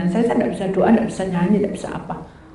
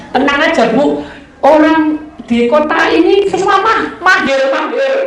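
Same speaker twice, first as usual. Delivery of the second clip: higher, louder, emphatic mock assurance; confident reassurance; 6 semitones higher, 5 dB louder, slower than usual. Driver tells nervous passenger the riders are skilled, confident reassurance. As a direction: brush the worry aside with slow, stretched confidence.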